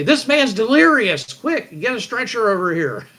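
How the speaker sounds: high, loud medic calling for help; alarmed medic. Acted. Medic calling for a stretcher, loud and high. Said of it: "they say".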